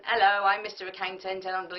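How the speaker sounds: dull, routine self-introduction; boring introduction. Shown as a demonstration. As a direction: say it like the tenth speaker of the morning. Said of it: "It's a lot different than".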